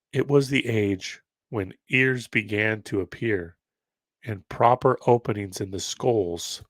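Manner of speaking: ordinary talk, nothing marked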